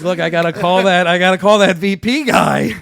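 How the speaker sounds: loud, high, frantic plea; hammed-up alarm, voice pushed up; acted panic. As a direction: reenact the dread of having to confess. Acted panic about calling the boss.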